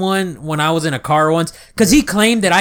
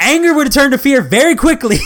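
laughing; 5 semitones higher than usual. Real, not acted. Joking, laughing.

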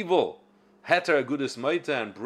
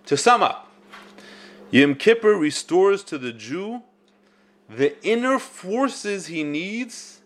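reading aloud; 6 semitones higher, slower than usual. Acted. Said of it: "I'll read you his words".

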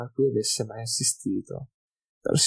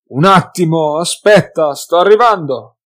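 loud, higher call from inside; calling back; 5 semitones higher, 11 dB louder than usual. A narrator's reading. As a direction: shout to the knocker to wait. (grido dall'interno della bottega)

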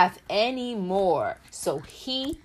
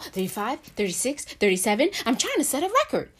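fast counting; 5 semitones higher, much faster than usual. Acted. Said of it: "Shh, I'm counting my jumps".

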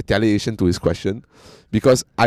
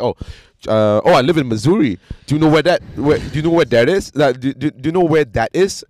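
higher, louder mock-eager American voice; imitating the American guy; 4 semitones higher, 3 dB louder than usual. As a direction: ham up the guy pestering with questions. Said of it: "And he's like".

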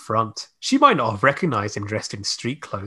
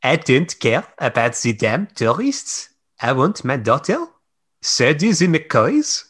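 put-on thick Scottish Highland accent. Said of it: "Your Highland accent is so thick".

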